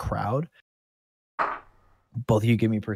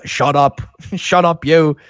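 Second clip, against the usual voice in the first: loud, higher-pitched, short shout; angry guard; 7 semitones higher, 13 dB louder, slower than usual. Acted. Guard silencing a caught kid, angry shout. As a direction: shout the prisoner down.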